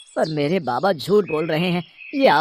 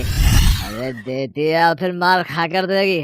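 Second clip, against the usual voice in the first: put-on drunk father's threat; slower than usual. Drunk father threatening wife for money.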